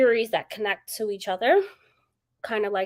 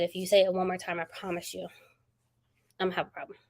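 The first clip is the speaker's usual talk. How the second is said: quiet retold warning; 4 dB quieter, faster than usual. Snapping at her boss over her calls, quietly firm. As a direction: hold it down, a calm warning with an edge. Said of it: "I finally snapped today".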